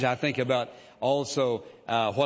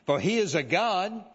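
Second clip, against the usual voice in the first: mocking taunt; 3 semitones higher than usual. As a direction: jeer at them like a mocking prophet. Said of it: "Elijah mocked them and said".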